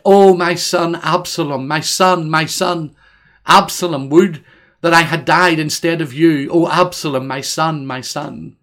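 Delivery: a grieving father's lament, read with feeling; weeping lament. Acted. Preacher reads David's lament for his dead son, grieving. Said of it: "and as he wept, he said".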